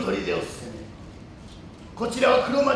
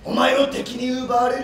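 stern shout; 3 semitones higher, 4 dB louder than usual. Acted. Lord rebuffs the girl.

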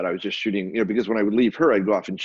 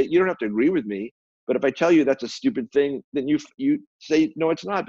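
higher, mildly mock-indignant friend; lightly voiced scolding about friendship; retold blunt lecture; 5 semitones higher than usual. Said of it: "And she goes".

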